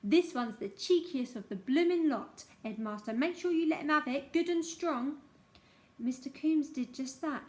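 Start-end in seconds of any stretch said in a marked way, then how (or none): 0.0-3.1 louder, spiteful screech; old woman screeching at the headmaster. Acted. 3.1-5.2 louder, spiteful screech; old woman screeching at the headmaster. Acted.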